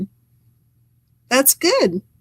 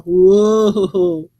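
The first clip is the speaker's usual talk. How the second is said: surprised whoa; 3 semitones lower, 5 dB louder than usual. Real, not acted. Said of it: "getting down in the dirt".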